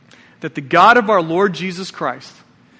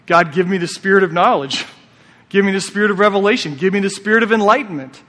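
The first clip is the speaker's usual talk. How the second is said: earnest model prayer, picking up pace; a touch of heartfelt prayer; demo prayer. Shown as a demonstration. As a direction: pray it out as an example. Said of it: "this is a great prayer to pray".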